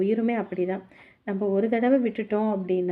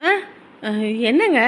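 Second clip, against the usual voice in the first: calling back; 3 semitones higher, 6 dB louder than usual. Acted. Wife answering husband's repeated calls, loud shout back.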